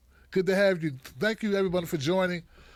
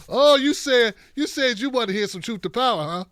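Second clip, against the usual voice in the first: teasing and excited; 3 semitones higher, 5 dB louder than usual. Real, not acted. Teasing viewers before the rant.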